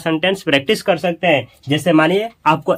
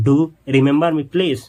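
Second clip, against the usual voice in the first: slow request; 2 semitones lower, much slower than usual. Shown as a demonstration. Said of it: "तो आप कैसे बोलेंगे ऐसे?".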